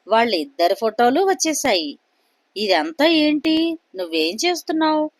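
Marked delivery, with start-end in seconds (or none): 2.6-5.1 panicked. Acted. Suresh as photos appear out of nowhere, panicked. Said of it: "అని కంగారు పడుతూ".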